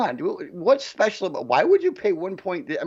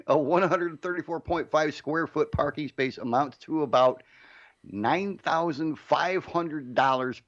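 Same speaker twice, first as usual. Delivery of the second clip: rereading with a laugh. Real, not acted. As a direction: laugh through the repeat. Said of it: "I'll say that again".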